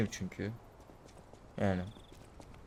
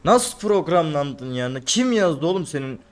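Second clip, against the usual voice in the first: furious rant; 3 semitones higher, 4 dB louder than usual. Real, not acted. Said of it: "sinirden konuşamıyorum".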